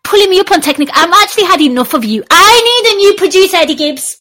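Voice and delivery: high, rushed mock tirade; mock outrage. Host to producer who corrected him, mock outrage. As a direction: rattle off a hammed-up complaint.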